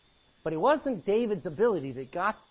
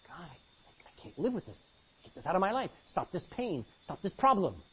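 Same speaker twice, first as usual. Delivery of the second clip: hushed desperate plea to God; pleading prayer; 4 dB quieter than usual. Acted. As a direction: pray it under your breath, begging for relief. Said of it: "Now you'd pray that too".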